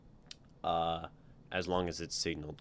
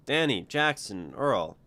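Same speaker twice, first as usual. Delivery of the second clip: louder called names, stretched and slow; calling out names; 6 semitones higher, 7 dB louder, slower than usual. Acted. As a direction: summon the three workers across the dock. Foreman calls workers over.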